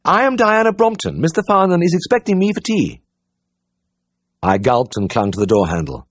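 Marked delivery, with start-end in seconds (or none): 0.0-3.0 high, posh lady's greeting; plummy upper-class hello; loud well-bred voice. A narrator's reading. Society girl at the door, greeting the vet in a loud well-bred voice. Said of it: "loud, well-bred voice".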